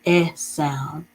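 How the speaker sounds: a clear, held eh sound; short e sound. Shown as a demonstration. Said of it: "in this word has the".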